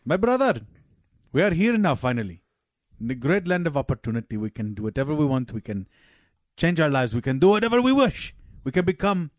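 joke-telling Afghan father, earnest and fast; Afghan accent. Acted. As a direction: put on a hammed-up Afghan accent. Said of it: "Two families from Afghanistan".

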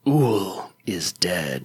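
slow, low dramatic whisper. Pretend. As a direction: breathe it like a grim secret. Dramatic reveal of character death.

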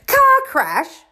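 very high-pitched, indignant roar; acted explosion of outrage; outraged roar. A narrator's reading. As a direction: roar it back in disbelief. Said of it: "roared Hagrid".

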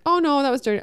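high, loud mocking of his excuse. Narrator mocking her partner's excuse to his lover, high and loud. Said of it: "It was just like".

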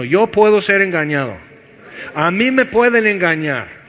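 firm declaration, spoken out; said out loud. Shown as a demonstration. Preacher leading the congregation in saying it aloud, firm. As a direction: say it so you hear yourself. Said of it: "Dilo en voz alta".

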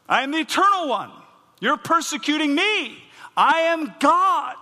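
booming divine declaration; thundering proclamation. Acted. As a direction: declare it like God himself. Preacher proclaiming God's words.

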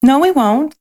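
fervent promise. Acted. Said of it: "the little soul promised".

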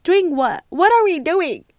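loud, high, incredulous questions; exasperated confusion. Retold or imitated. Reacting when he says they can't continue, confused. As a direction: push it up high and loud, baffled. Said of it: "I'm fucking confused".

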